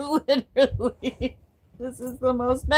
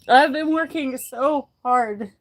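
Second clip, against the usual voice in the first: crying; 3 semitones higher than usual. Real, not acted. Overwhelmed emotional vlog, crying.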